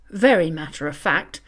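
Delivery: ordinary delivery, nothing marked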